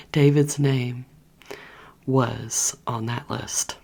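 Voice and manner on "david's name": excited. Real, not acted. Repeats crush's name excitedly.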